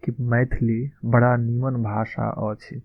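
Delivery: slow, careful Maithili model line; slow model phrase. Shown as a demonstration. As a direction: say it slowly, like a teacher modelling. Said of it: "किस तरह से बोलेंगे".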